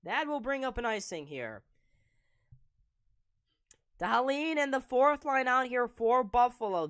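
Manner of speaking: brisk, loud hockey play-by-play; live play-by-play. Acted. Stream commentator calling the Sabres game live for viewers. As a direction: call the game as it happens.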